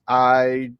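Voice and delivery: slow, drawn-out sarcasm; sarcastic. Acted. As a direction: drag it out, dripping sarcasm. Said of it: "completely sarcastically".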